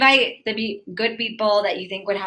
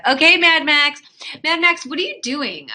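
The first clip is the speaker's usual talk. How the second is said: bright, much higher call to a viewer; excited greeting; 7 semitones higher than usual. Real, not acted. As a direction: greet Mad Max with a lift.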